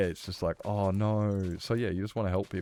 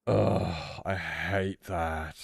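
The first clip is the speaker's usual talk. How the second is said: slow, "I hate that" dragged out; disgusted groan; 2 semitones lower, much slower than usual. Real, not acted. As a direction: let the distaste drag it out.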